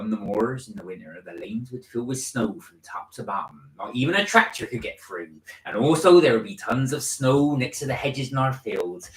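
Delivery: lilting West Country country voice; West Country accent. Shown as a demonstration. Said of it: "I'm gonna do it in my West Country accent".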